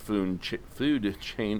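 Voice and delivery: fumbled words, real slip of the tongue; tongue-tied stumble. Real, not acted. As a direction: trip over "food ch-" and restart. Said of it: "my tongue is having a stroke".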